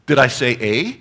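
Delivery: high, loud puzzled question; baffled. Retold or imitated. Preacher retelling his baffled reply to the driver, high and loud. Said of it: "I'm like".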